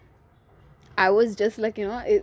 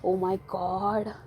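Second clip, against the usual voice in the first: brother teasing; 4 semitones lower, 5 dB quieter, slower than usual. Retold or imitated. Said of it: "my brother used to tease me".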